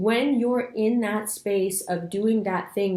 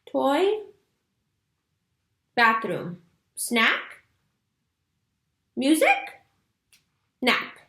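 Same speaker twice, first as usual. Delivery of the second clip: higher, questioning little-kid imitation; oblivious toddler; 6 semitones higher, much slower than usual. Toddler looking blankly at a hurried parent, innocently asking. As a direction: toss out single words with long gaps and a questioning lift. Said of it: "they just kinda look at you like".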